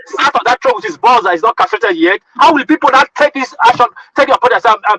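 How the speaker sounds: heated, insistent protest; worked-up outburst in a real argument; angry shouting. Real, not acted. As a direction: argue it out indignantly, stumbling as it builds. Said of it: "But you are shouting".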